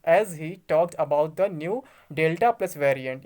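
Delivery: slow, word-by-word reading of English text; slow news reading. Acted. Vlogger reads the news to his friends, slow careful reading. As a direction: spell out each English word carefully, slowly. Rereads English quote aloud.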